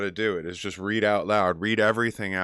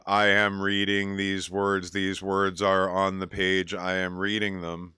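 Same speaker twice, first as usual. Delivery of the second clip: flat rote reading. Shown as a demonstration. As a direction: read it like words on a page with no character. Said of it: "don't just read the words like".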